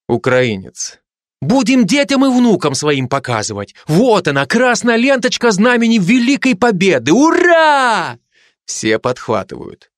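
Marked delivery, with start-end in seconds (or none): 1.4-8.2 put-on higher Ukrainian-accented soldier, rising to a cheer; proud Ukrainian accent, building up to a rousing hurrah. Ukrainian soldier cheering comrades in a car, in a Ukrainian accent. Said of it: "каждый со своим акцентом".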